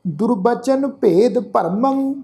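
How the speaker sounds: slow, sustained sacred verse; measured Gurbani recitation; scripture recitation. Shown as a demonstration. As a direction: recite slowly, holding the long vowels.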